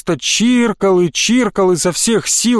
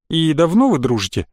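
ordinary delivery

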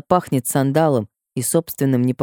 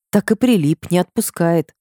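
usual speaking voice

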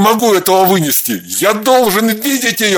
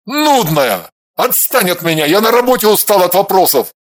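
louder angry outburst; snapping; 3 dB louder than usual. A narrator's reading. Husband lashing out at wife, louder angry snap. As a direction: shove her away with words. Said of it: "рявкнул он".

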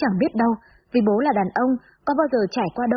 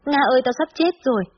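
higher-pitched narrated wail, mildly tearful; tearful panic; 5 semitones higher than usual. A narrator's reading. Frightened girl phoning her friend about dying, tearful panic. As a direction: plead as if on the verge of crying. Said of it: "khóc mếu nói".

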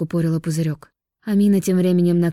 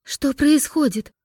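frightened; 9 semitones higher, slower than usual. Acted. Sisters in horror.

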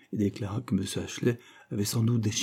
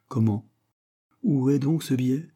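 higher, louder sudden alarm; startled cry; 5 semitones higher, 5 dB louder than usual. A narrator's reading. Master to quaker, crying out in surprise. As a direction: master crying out in alarm over a missing banknote. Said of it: "s'écria-t-il".

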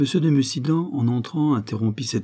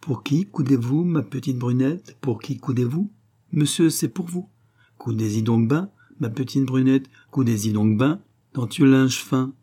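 lilting verse with rising questions; sweet, light ditty; 4 semitones higher than usual. A narrator's reading. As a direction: recite the little song sweetly, without pressing. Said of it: "c'était avec gentillesse qu'elle disait les paroles".

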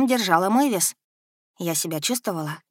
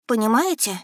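hesitant; 4 semitones higher than usual. A narrator's reading. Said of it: "неуверенно начала я".

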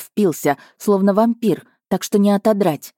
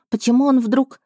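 indignant; 9 semitones higher than usual. A narrator's reading. Indignant outburst.

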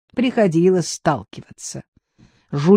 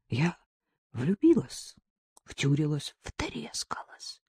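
soft confession fading to a whisper; 4 semitones lower, 11 dB quieter, slower than usual. A narrator's reading. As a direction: confess it to yourself, hushed. Marina confesses alone, fading. (Марина шёпотом признаётся себе)

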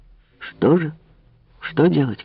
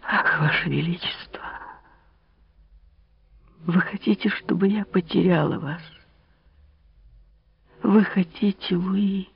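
high, hushed, tearful pleading; Marie's final plea; 8 semitones higher, 3 dB quieter than usual. Acted. Marie begs Louis not to lose her, high tearful plea. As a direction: beg him with mounting despair.

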